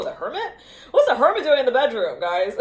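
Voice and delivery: high, loud laughing question. Real, not acted. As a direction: laugh through the words. Laughs at a surprising card.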